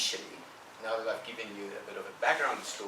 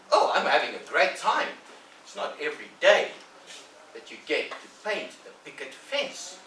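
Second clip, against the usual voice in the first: put-on loud, higher happy boy; boastful Tom; 5 semitones higher, 7 dB louder than usual. Tom bragging to Ben about the fence, loud and delighted. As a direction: savour every word.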